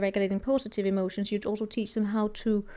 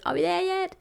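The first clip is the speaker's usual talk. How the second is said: high, sing-song Donkey nagging; Donkey from Shrek; 9 semitones higher than usual. Retold or imitated. Donkey pesters on the road trip, high and sing-song. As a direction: pitch it up like the chatty donkey. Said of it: "It's like Donkey from the Shrek".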